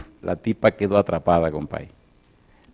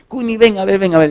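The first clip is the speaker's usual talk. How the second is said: calling out; 11 semitones higher, 5 dB louder than usual. Retold or imitated. Calling daughter over.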